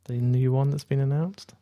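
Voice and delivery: slow, tentative rise at the end; secretive. Real, not acted. Podcaster hinting at a film announcement to co-hosts, secretive. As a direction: say it cagily, as if letting slip a secret. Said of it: "Why are you saying it like that, as if it's a secret".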